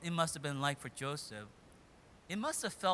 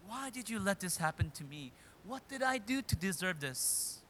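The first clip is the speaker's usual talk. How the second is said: higher, louder cries of why to God; anguished questioning; 5 semitones higher, 5 dB louder than usual. Retold or imitated. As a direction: cry out to God in despair. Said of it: "he must have wondered".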